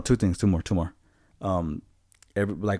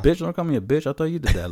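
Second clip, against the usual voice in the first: higher and louder, mock offended; indignant retort; 8 semitones higher, 6 dB louder, faster than usual. Arguing with coworker about the noise, raised retort. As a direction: snap back at being called names.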